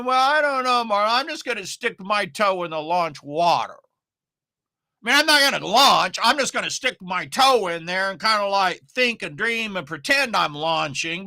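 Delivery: lightly put-on voice of a dithering beginner; a hint of a mocking, hesitant voice. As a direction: make fun of the timid launcher who hedges everything. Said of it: "I don't know why I use that voice".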